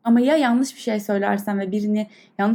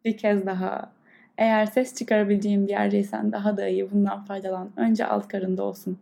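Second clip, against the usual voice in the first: guided meditation. Acted. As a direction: calmly guide the breath. Leads a breathing meditation. (yavaş, yumuşak meditasyon sesi)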